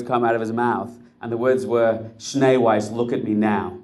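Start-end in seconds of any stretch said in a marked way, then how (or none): 2.2-3.8 a blunt, bossy command, a touch louder; commanding order. Acted. Rebbe ordering the camp officer to look at him, commanding. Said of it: "That was wrong".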